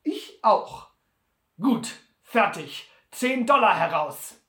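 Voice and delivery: lauter und höher, bestimmt; Sam zufrieden. Acted. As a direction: knapp die Wette besiegeln. Wette wird abgeschlossen. (Sam nimmt die Wette laut an)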